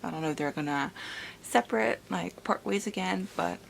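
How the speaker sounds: soft but eager, held-down thrill; hushed excitement. Acted. Vlogger quietly gushing about the reunion, hushed. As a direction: contain the excitement to a hush.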